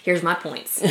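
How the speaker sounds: hushed mock whisper; soft, voiceless aside; sly whisper. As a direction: whisper it as if secretly presenting notes. Mimes typing notes to pounce.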